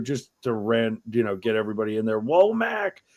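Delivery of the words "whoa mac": much higher, mock Scottish accent hail; Scottish greeting. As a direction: call out like a Scotsman greeting a mate. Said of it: "he dumbs down his accent".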